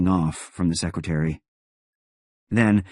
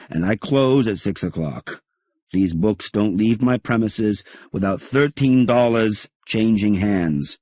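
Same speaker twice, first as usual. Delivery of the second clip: gruff shopkeeper; 4 semitones higher, 4 dB louder than usual. Acted. Shopkeeper laying down terms.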